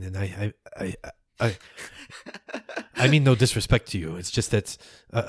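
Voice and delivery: stammering, hesitant henchman; deferential follower, flustered. Acted. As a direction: stumble through excuses to a master.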